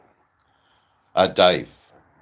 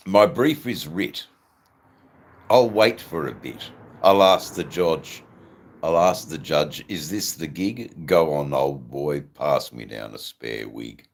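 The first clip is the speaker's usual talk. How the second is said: louder, punchy verse recital; poem recital; 6 dB louder than usual. Acted. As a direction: declaim the rhymes in short bursts. That's my poem.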